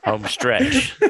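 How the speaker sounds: laughing "home stretch" with a rising end. Real, not acted. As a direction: squeak it out mid-laugh. Laughing, repeats phrase.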